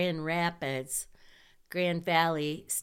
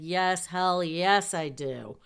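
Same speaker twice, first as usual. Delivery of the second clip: emphatic yes; 4 dB louder than usual. Retold or imitated. Eager to go first.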